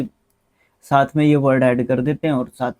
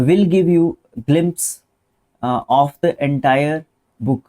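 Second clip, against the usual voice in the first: teacher slowly reading the sentence; much slower than usual. Shown as a demonstration. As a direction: drag out each word for the class. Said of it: "reading the sentence slowly".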